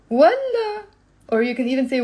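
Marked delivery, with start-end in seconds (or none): 0.1-0.9 والله high and loud; scornful refusal. Shown as a demonstration. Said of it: "Look at the tone of my voice".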